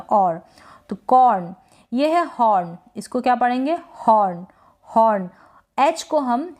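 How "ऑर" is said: "और" में खुला ऑ, र बस ज़रा सा; "और" का र हल्के से छूकर; हल्का र. Shown as a demonstration. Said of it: "र को बिल्कुल थोड़ा सा प्रोनाउंस". ("और" को र दबाकर बोलें)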